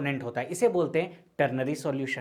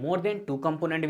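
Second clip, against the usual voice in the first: slow, with than pressed hard; stress on than; much slower than usual. Shown as a demonstration. Teacher stressing the rule to students, slow emphasis. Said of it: "ऐसा नहीं है कि हम दो ही component लेते हैं".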